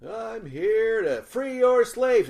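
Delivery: loud, high, very slow fake British proclamation; mock British accent. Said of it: "Like she's all chim chimney?".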